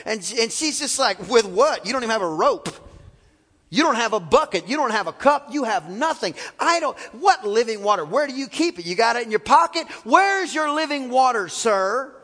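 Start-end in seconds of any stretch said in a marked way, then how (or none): 1.3-12.1 sarcastic. Retold or imitated. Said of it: "this lady is being sarcastic to the max".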